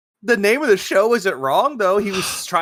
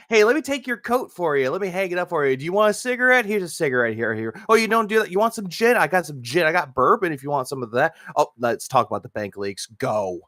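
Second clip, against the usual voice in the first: imitated over-cordial host, dropping low at the end; mock cordial host; 4 semitones lower than usual. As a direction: play at fussing over a guest. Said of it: "very, very cordial".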